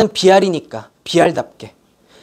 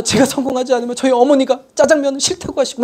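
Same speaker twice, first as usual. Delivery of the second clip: higher-pitched, acted sob story; mock tearful pleading; 5 semitones higher than usual. Student begging the teacher with a family story, mock tearful. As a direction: plead as if welling up, lightly hammed-up. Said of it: "눈물을 글썽글썽거리면서".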